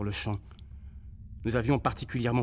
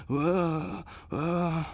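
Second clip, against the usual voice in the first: cry of pain; 4 semitones higher than usual. Acted. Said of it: "poussait continuellement un cri de douleur".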